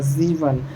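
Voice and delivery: ज़ीवन repeated as German "sieben", z then ee; German pronunciation. Shown as a demonstration. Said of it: "सेवन को ज़ीवन बोला जाता है".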